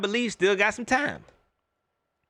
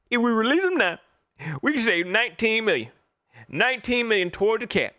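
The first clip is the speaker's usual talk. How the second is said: raised, lightly mocking voice of the fans; mocking the fans' argument; 4 semitones higher than usual. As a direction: parrot the fans' cap logic a bit higher. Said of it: "That's what everybody was saying".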